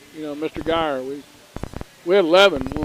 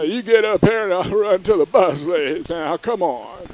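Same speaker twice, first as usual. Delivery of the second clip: imitating the coach. Redoing Coach Ernst's threat at the host's request, in a mock coach voice. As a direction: do the coach for the listener. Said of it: "you gotta talk like you".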